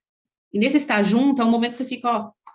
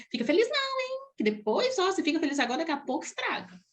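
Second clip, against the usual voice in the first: imitating a warning; 6 semitones higher, 6 dB quieter than usual. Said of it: "Tem gente que fala assim".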